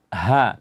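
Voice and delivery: "Ha" as a deep h felt in the chest. Shown as a demonstration. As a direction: breathe "Ha" out from the chest. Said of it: "terasa dia di dada".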